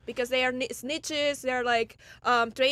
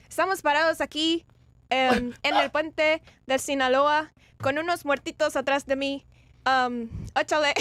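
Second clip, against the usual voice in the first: put-on Mexican accent. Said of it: "his Mexican accent".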